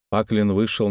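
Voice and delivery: plain reading voice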